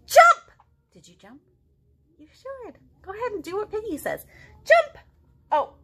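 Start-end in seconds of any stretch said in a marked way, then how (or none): 0.1-0.5 high, loud cry of jump; shouted command. Acted. Piggy yells the dance move at Gerald. 4.6-5.0 high, loud cry of jump; shouted command. Acted. Piggy yells the dance move at Gerald.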